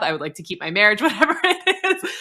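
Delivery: sudden high laugh through whatever it is. Retold or imitated. Client admitting anger to therapist, laughing it off. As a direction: laugh away the confession.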